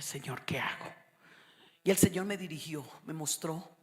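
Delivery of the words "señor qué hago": whispered prayer. Retold or imitated. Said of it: "yo dije".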